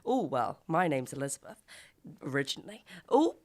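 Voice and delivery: lightly voiced bright chatty host; breezy small talk. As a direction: mildly gush like a cool celebrity. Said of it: "just enough time to be like".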